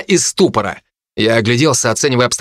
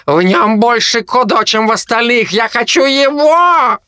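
greedy harpy; 9 semitones higher than usual. Acted. Harpy Kai demands the boy for her garden, high greedy harpy voice. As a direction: stretch every word with craving.

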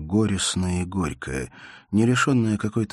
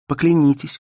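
higher, louder, desperate insistence; urgent demand; 10 semitones higher, 9 dB louder than usual. Acted. Elena demands Bersenev swear to send for her, desperate and loud.

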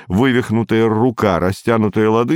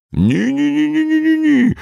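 rapid denial. A narrator's reading. Petenka quick denial.

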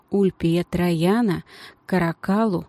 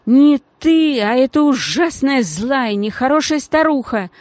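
high, loud furious protest; angry outburst; 6 semitones higher, 5 dB louder than usual. Acted. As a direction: rail against the old woman. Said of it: "снова вспылила девочка". (гневный крик, высоко и громко)

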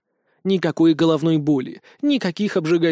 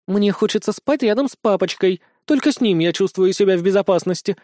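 purring; 3 semitones higher, 3 dB louder than usual. Acted. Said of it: "промурлыкала дракошка".

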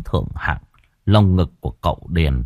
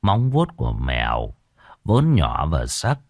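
respectful healer; 7 semitones lower, 4 dB quieter than usual. Acted. Healer answering the lady.

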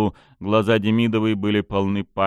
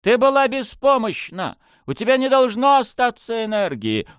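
high, alarmed protest; shocked disbelief; 13 semitones higher than usual. Acted. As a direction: cry out in disbelief. Nastya panics at Mila's awakening.

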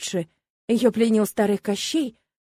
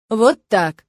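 said with firm pressure; pressing; 9 dB louder than usual. A narrator's reading. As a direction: lean hard on it, louder. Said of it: "с нажимом ответил он". (с нажимом, твёрдо)

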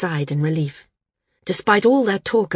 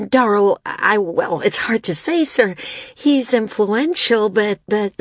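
higher, halting, nervous stammer; 5 semitones higher, 4 dB louder than usual. A narrator's reading. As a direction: hem and haw anxiously to a superior. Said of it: "San coughed nervously".

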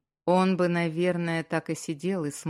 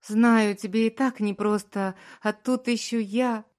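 high, loud, tearful strained voice; sobbing wife, choked and strained; 5 semitones higher, 6 dB louder than usual. A narrator's reading. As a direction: force words out through sobs. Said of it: "сдавленным голосом".

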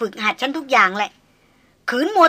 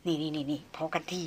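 much softer, lower calming stop; weary hush; 5 semitones lower, 12 dB quieter than usual. A narrator's reading. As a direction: quietly wave them down. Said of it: "เชษฐาชุบปากเบาๆ".

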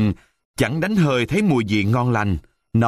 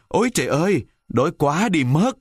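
hungry moan; 6 semitones higher than usual. Acted. Buratino moans, hungrier still.

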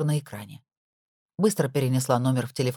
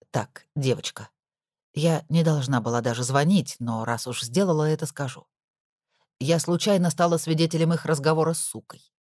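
gossipy housekeeper. Acted. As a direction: lean in and tell the secret. Nora gossips on the phone.

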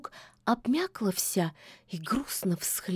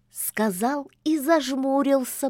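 usual speaking voice

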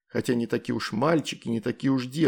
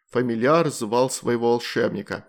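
plain reading voice

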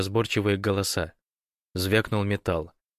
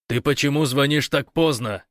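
louder, higher angry outburst; exploding in anger; 6 semitones higher, 5 dB louder than usual. Acted. Gosh yelling at Fyodor for calling so late, angry. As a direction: blow up at him. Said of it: "взорвался Гош".

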